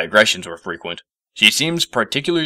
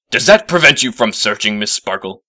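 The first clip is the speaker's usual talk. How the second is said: irritated; 3 semitones higher, 6 dB louder than usual. Acted. Professor stamping, irritated.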